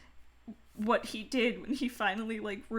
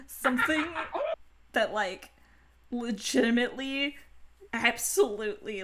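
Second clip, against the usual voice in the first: put-on Valley Girl voice; 3 semitones higher than usual. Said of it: "I'm breaking Valley Girl voice for a second".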